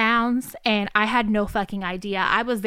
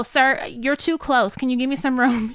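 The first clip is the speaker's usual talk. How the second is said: politely firm; 3 semitones higher than usual. Retold or imitated. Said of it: "She was polite, but".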